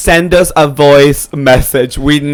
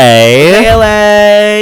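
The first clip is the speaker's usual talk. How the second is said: hype shout; 4 semitones higher, 4 dB louder, much slower than usual. Acted. Cheering for L A.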